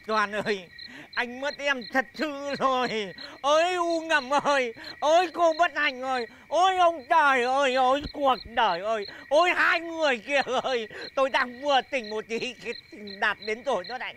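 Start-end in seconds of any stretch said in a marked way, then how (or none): 3.4-10.9 comic lament. Acted. Lament over lost love.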